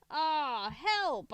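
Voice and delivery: high, loud cry for help; panicked call for help; frightened cry. A narrator's reading. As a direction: yelp in fear. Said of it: "I cried".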